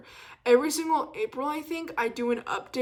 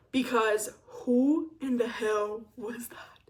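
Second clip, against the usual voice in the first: a slow, breathy whisper of horror; slower than usual. Real, not acted. Whispering, cringing at her younger self. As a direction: hush it out slowly in disbelief.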